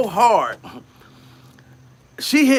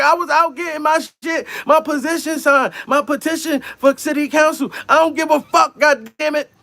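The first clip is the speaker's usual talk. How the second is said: put-on angry girlfriend; 8 semitones higher than usual. Girlfriend snapping back at his accusation, mock angry high voice. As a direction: voice her yelling defiantly. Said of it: "She was like".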